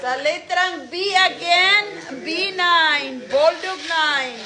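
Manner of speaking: sing-out, drawn-out ball calls; measured caller's cadence with stretched numbers; bingo caller. Real, not acted. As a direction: announce each letter and number to the room.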